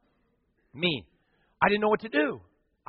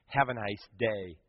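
soft slow farewell; 7 semitones lower, 8 dB quieter, slower than usual. Shown as a demonstration. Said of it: "Words have power".

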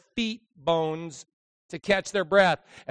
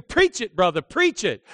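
mock scream; 4 semitones higher, 7 dB louder than usual. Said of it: "The guys are screaming".

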